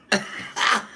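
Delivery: high-pitched short laugh. Real, not acted. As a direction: crack up at your own joke. Laughing at own joke.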